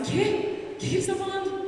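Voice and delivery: high baffled whisper-start question; retold confusion. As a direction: act stunned hearing Catalan. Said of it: "E eu ficava assim".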